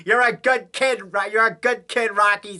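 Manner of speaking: hammed-up Conrad saying good kid; imitating Conrad. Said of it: "Say that over the phone".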